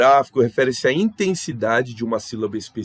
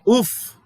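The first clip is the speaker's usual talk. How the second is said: higher, louder puff of relief "uf"; exclaimed "uf"; 11 semitones higher, 5 dB louder than usual. Acted. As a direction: let out an acted "uf". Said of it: "É quando você faz sons".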